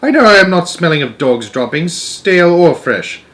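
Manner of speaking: high, loud, stubborn denial; boy denying it, high and insistent; indignant insistence. A narrator's reading. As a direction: insist hotly. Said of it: "I cried".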